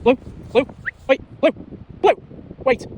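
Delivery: high, loud call after the dog. Real, not acted. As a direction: call the runaway dog back. Calling the dog back.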